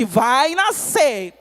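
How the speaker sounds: loud, drawn-out proclamation; heaven's decree. Acted. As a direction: proclaim it slowly and forcefully. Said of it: "o céu olhou e disse".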